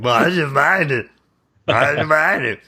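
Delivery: high-pitched, barely intelligible mimicry; garbled movie-line impression. Podcaster mocking an actor nobody can understand, garbled high impression. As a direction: push it up high and mangle the words. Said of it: "understand what the hell he's saying".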